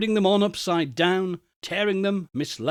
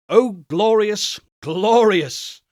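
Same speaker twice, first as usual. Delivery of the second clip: delighted exclamation; 4 semitones higher, 5 dB louder, slower than usual. Acted.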